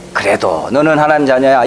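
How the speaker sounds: gentle, consoling "너는" lightly stressed; comforting. Shown as a demonstration. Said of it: "이렇게 좀 위로를 해주십시오".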